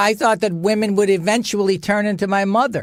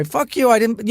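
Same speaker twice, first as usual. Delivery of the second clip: mock angry retort; 7 semitones higher than usual. Retort outside.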